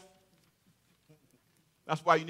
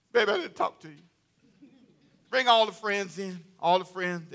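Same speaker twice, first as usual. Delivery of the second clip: 1 Haman voiced. Haman voiced talking to wife.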